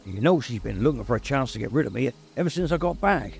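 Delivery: a lightly voiced giant friend confessing his fears; Hagrid, worried. A narrator's reading.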